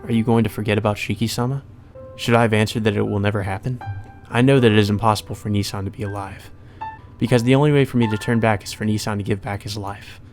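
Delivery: composed first-person narration; story narration. Acted. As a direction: read it out evenly and restrained. Reads game narration.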